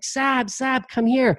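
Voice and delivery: high excited call to her husband; mock yell of his name from upstairs; wife yelling her husband's name from upstairs, excitedly; imitating wife's scream. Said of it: "she started screaming".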